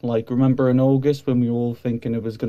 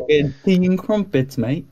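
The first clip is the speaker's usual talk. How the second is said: put-on British accent; 4 semitones higher than usual. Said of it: "love that meme".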